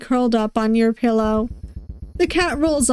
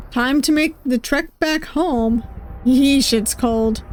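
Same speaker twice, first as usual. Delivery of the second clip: usual speaking voice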